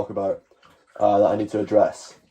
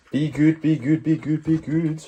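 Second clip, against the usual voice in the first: higher sing-song to the dog; high coaxing voice; 4 semitones higher, slower than usual. Real, not acted. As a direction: coax the dog gently, up high.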